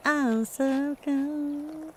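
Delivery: slow, soft shivery words; shivering. Real, not acted. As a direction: talk like you're freezing. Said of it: "I'm freezing".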